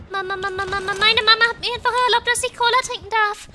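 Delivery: put-on loud, high, rapid child-like shout; excited German kid. Kid announcing cola permission to everyone, loud excited imitation. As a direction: blurt it out like an overjoyed kid.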